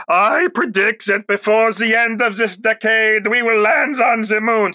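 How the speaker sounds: slow, lightly voiced Kennedy; a hint of Kennedy oratory; JFK impression. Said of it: "it's President John Kennedy".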